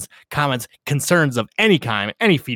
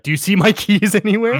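high mock caller voice; 10 semitones higher, 6 dB louder than usual. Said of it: "be like".

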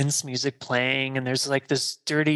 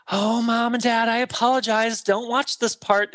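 mock embarrassed apology; 7 semitones higher than usual. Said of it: "And Laurie's like".

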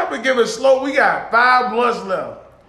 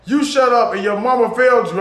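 retold comeback; 4 semitones higher, 5 dB louder than usual. Retold angry comeback to heckler.

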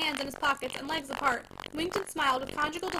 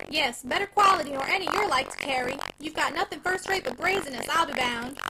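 triumphant; 5 dB louder than usual. Acted. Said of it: "with a triumphant sense".

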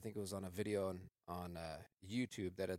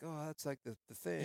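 airy, dismissive wannabe voice; mocking; 7 semitones higher than usual. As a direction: parody a clueless wannabe director.

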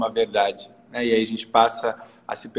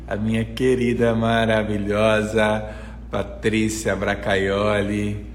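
drawn-out, emphatic announcement of a guest; guest introduction; 3 dB louder, slower than usual. Real, not acted. Host brings on her wonderful guest, drawn-out announcement. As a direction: stretch out the name like a presenter.

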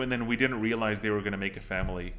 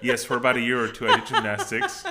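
laughing confession; 3 dB louder than usual. Real, not acted. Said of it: "You did just say that".

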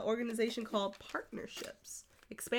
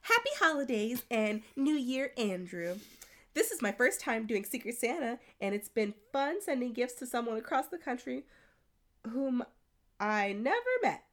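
lightly raised squeaky reading voice; 4 semitones higher than usual. Pretend. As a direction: read it in a slightly squeaky voice. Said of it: "I'm gonna read in a squeaky voice".

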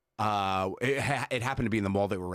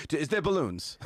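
flustered assistant; 7 semitones higher than usual. Retold or imitated. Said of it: "I'd be like".

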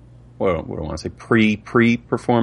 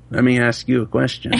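put-on old man voice; 3 semitones higher than usual. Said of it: "answer as an old person".

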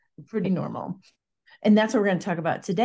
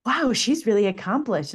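lightly acted impressed reaction, pitched up; mock admiration; 4 semitones higher than usual. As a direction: pretend to admire a stranger's résumé. Acts out hearing own introduction.

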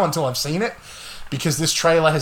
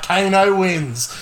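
Australian Kano; 3 semitones higher, much slower than usual. Retold or imitated. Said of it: "and he's like".

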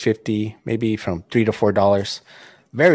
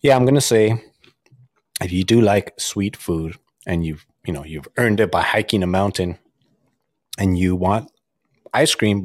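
talking with a mouthful; words around a crunchy bite; crunching while talking. Real, not acted. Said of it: "so don't mind the crunching".

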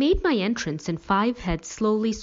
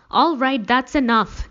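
raised, higher parental command; angry yell; 7 semitones higher, 7 dB louder than usual. A narrator's reading. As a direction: put a stop to it loudly. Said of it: "Dad yelled".

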